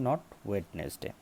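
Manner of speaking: Wednesday slowly with the d sounded, wed-nes-day; wrong pronunciation, slow. Shown as a demonstration. Teacher slowly showing the wrong Wednesday. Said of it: "আর একটা হলো Wednesday".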